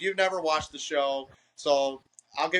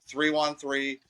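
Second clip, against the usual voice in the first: spelled out slowly; slower than usual. Shown as a demonstration. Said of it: "my Instagram is Big Ren Dog".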